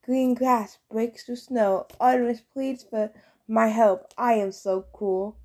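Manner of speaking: slow, grand recital of a haiku; dramatic haiku. Acted. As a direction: declaim it like a proud poet. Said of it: "held up one hand dramatically".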